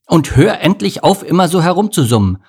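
loud, high irritated scolding; growling. A narrator's reading. Bodo scolding the humming mosquito, growling. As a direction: grumble it at her, fed up. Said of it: "fügte er knurrend hinzu".

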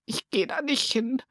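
put-on soft, tearful child's whisper. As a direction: whisper it with a lump in the throat. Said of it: "flüsterte Lulu". (tränenerstickt geflüstert)

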